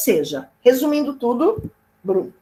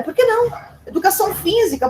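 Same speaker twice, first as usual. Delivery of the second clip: laughing joke; 9 semitones higher, faster than usual. Acted. Teacher jokingly adds PE.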